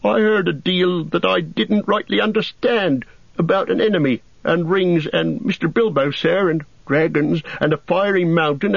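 put-on a simple young gardener, earnest and wistful about elves; Sam the gardener. A narrator's reading. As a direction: Sam confessing and pleading to see elves. Sam's long answer.

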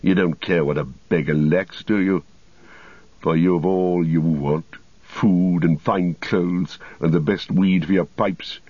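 lightly voiced sneering wizard; Saruman. Saruman taunts the hobbits.

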